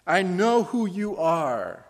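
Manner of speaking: the evil spirit confronting Jesus, loud and high; demon crying out. Acted. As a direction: shriek it at Jesus as the possessed man. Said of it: "cried out".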